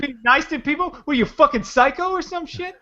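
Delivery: high-pitched hammed-up challenge; mock confrontation. Heckler challenging friend for being nice, hammed-up aggression. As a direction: pick a pretend fight.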